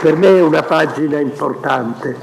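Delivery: apologising while moved; real emotion breaking through. Real, not acted. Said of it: "mi sono commosso".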